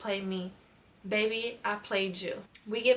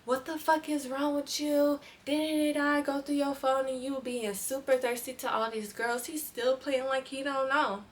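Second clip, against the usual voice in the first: retold yelling; 4 semitones higher than usual. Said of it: "I'm screaming at him".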